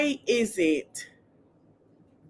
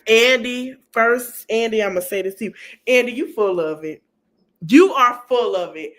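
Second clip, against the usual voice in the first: louder, scolding the host; indignant callout; 3 semitones higher, 5 dB louder than usual. Real, not acted. Telling Andy off for not taking it serious, indignant. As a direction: call him out to his face.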